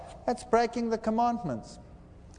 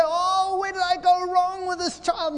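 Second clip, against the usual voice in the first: high, anguished wail of a despairing parent; a parent's high, hammed-up lament over their child; distraught parent; 10 semitones higher than usual. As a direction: cry it out like a parent at their wits' end.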